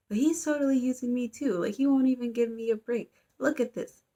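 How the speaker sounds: mock indignant. Girl in class complains he's using her, mock indignation. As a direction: complain as if you've had enough. She complains about being used.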